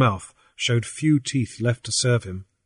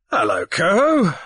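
genial greeting; 8 semitones higher, 4 dB louder than usual. A narrator's reading. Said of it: "said Captain Grief genially".

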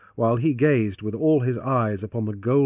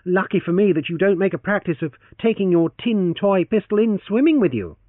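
teasing; 9 semitones higher, 6 dB louder than usual. Acted. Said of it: "he teased on".

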